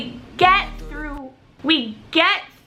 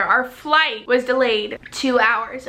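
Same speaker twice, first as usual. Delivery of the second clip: slow, deliberately spaced words; calm, clear repeat; 2 semitones lower, slower than usual. Shown as a demonstration. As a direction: spell it out calmly for the listeners. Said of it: "say that again so you guys can, um, hear".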